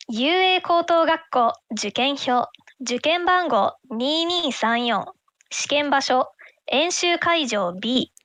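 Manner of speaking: booming announcer reading out the ticket; Japanese announcer voice. Pretend. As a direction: read it like a fighting game announcer. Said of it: "that is my Japanese announcer voice".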